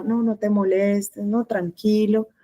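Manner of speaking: slow, drawn-out, timid deferral; hesitant, passive. Shown as a demonstration. Teacher imitating a passive person declining help, hesitant. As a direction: back off slowly and hesitantly. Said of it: "es vacilante, cortada".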